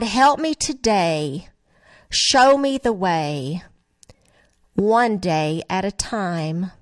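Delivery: slow, tender reading of a hymn as a prayer; prayerful lyric reading. Acted. Reads song lyrics as prayer.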